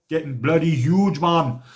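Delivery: lightly put-on Jamaican accent; jokey, half-landed Jamaican accent. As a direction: briefly slip into a Jamaican accent. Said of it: "That was a Jamaican accent".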